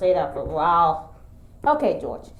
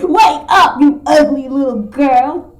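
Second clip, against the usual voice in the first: high, loud teasing wake-up; loud, high mock insult to wake her; loud wake-up call; 5 semitones higher, 6 dB louder than usual. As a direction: yell it up high to rouse the sleeper. Waking character in pretend play.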